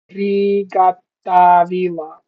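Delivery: ordinary talk, nothing marked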